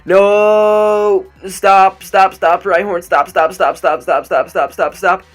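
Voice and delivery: frantic shouting. Real, not acted. Player begging Rhyhorn to stop, frantic shouting. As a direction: shout it in a panicked rush.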